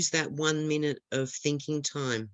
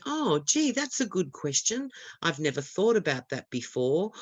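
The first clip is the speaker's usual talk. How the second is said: musing as a candidate buying time, pitch falling away; calm stalling. Shown as a demonstration. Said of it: "just be calm and say".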